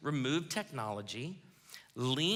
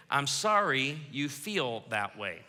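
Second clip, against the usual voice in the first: 1 bad apology; slower than usual. Shown as a demonstration. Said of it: "the world's worst apology".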